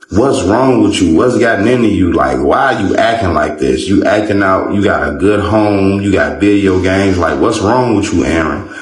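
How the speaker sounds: mock yell, scolding her son; a mother's exasperated tirade, half shouted. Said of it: "she was yelling at him".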